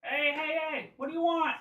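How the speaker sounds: high-pitched, blustering challenge; jumpy creature warding off intruders; threatening creature leader. Acted. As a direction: challenge them in a high little-monster voice. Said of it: "waving it threateningly".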